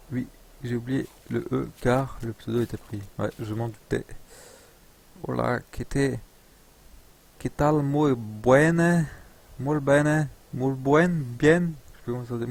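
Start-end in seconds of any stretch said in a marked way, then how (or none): 5.2-11.7 put-on halting, drawn-out Spanish accent. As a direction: try out Spanish in an amateur accent. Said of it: "C'est l'accent espagnol".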